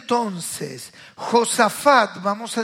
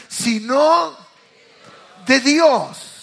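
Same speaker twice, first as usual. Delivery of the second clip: preacher's shout; 4 semitones higher, 7 dB louder, much slower than usual. Acted. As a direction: shout it higher and louder. Shouted climax. (grito de predicador)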